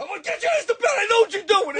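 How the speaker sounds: high mock threat; mock stern parent. Mother threatening a child hiding in bed, high mock threat. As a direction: tease like a parent catching them.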